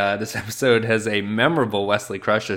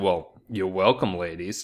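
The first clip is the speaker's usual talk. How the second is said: put-on sarcastic character voice; 3 semitones lower, 4 dB quieter than usual. Recapping a scene, the speaker acts out the character's parting line: mock-sarcastic Wesley Crusher line. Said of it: "he gives a sort of sarcastic".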